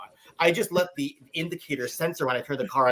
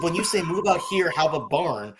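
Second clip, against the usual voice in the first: ordinary talk, nothing marked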